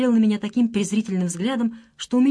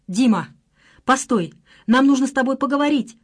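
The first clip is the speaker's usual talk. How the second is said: raised calling voice, higher and louder; calling out loudly; 6 semitones higher, 4 dB louder than usual. A narrator's reading. Running after her boyfriend on the street, loud calling. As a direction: call after him urgently, pitched up. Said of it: "громко кричала я".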